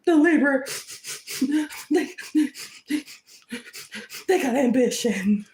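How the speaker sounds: over-the-top jealous rival near tears; mock anguished whining. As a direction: beg for it to stop, fake-tearful. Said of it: "Anyway, back in character".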